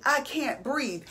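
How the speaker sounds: soft, weak, airless plea; faint struggling voice. Retold or imitated. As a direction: let it fade as if short of air. Quoting people struggling to breathe.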